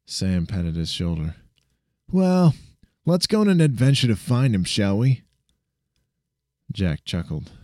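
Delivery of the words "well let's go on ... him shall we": put-on higher, amused young sidekick; cocky friend voice. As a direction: tease him, impressed but playful. Sam's voice, playful.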